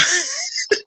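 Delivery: high, flustered nervous giggle; nervous laugh. Real, not acted. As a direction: laugh off the nerves. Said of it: "I'm, like, freezing up".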